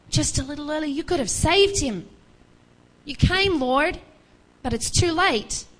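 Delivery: a sister's anguished plea, climbing up; grieving plea. Retold or imitated. Sister pleading with Jesus for her dead brother, grieving. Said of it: "her first words to him are".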